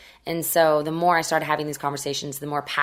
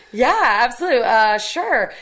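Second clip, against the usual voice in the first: higher and louder, quick and keen; eager agreement; 7 semitones higher, 6 dB louder than usual. Retold or imitated. Teen hurrying to obey her mother, high and eager. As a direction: jump at the chance to leave the room.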